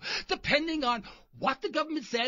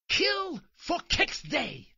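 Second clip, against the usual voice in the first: drawn-out pitch; 5 semitones higher, much slower than usual. Acted. Proposing a holiday name.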